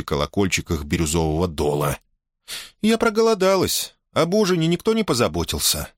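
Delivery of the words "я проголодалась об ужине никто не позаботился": serene tone. A narrator's reading. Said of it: "Безмятежный тон".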